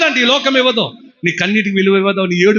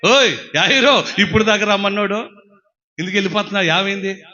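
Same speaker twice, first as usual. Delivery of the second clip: Jesus speaking to Jairus; 3 semitones higher than usual. Acted. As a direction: reassure the worried father. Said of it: "ఆయన ఏమంటాడు తెలుసా".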